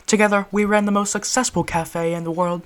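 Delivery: proud British gentleman; boastful British reminiscing; British accent. Acted. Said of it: "British accent for this one".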